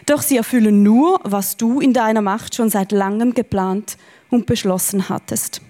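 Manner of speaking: measured Standard German Bible reading; formal read-aloud of a prayer; scripture reading. Acted. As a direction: read the verses out deliberately to a congregation.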